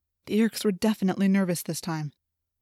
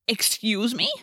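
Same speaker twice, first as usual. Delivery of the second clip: shrilled; 2 semitones higher, slower than usual. A narrator's reading. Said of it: "Marco shrilled".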